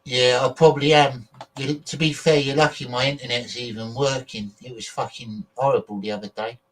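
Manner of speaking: glitchy robotic voice from lag; choppy robot voice over bad internet. Real, not acted. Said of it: "So excuse my robot voice".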